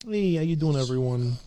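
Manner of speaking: attempted Brooklyn accent greeting. Shown as a demonstration. Warming up the accent for a listener, Brooklyn accent. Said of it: "a Brooklyn accent".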